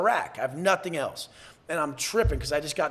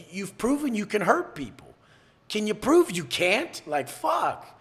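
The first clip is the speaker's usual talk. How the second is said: higher-pitched retold plea; imitating pleading mother; 5 semitones higher than usual. Mother confronting her son on the phone, imitated exasperated plea.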